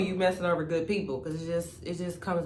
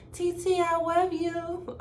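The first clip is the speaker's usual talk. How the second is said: put-on high, slow little-child voice; a sweet small boy's voice; imitating a little kid; 12 semitones higher, much slower than usual. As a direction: coo it like a small nephew. Nephew's sweet call imitated.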